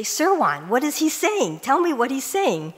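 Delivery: anxious call to a friend; urgent plea. Retold or imitated. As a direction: press him to tell you, urgently. Urging neighbor to translate excitedly.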